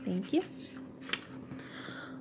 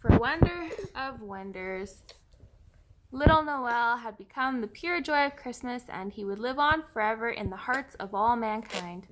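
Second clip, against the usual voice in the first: softer, slower steady reading; soft, slow retake; 7 dB quieter than usual. Real, not acted. Reader retakes the tearful ending to her child, softly. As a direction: hold it together and read it gently. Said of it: "Try that again".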